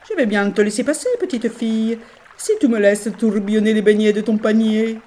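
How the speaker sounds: river Giordano. Acted. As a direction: bargain playfully as the river. Le fleuve pose sa condition. (voix de fleuve joueur)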